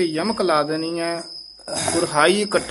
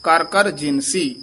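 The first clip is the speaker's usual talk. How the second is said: "ਕਰ ਕਰ ਜਿਨਸੀ" as one closed phrase; pause placement demo; slower than usual. Shown as a demonstration. Teacher showing where to rest, deliberate phrase ending. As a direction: stop fully after "ਜਿਨਸੀ". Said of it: "ਇੱਥੇ ਵਿਸਰਾਮ ਲਾਉਣਾ ਹੈ".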